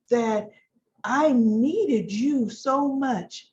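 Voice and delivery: slow, drawn-out confession; lightly voiced scheming wife, very slow; voicing Victoria. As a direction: lean on each word, wounding him. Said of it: "she's like".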